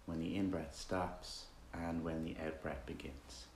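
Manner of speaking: relaxed, conversational meditation leading with roomy silences; guided meditation. Acted. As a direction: guide listeners gently with long pauses between instructions.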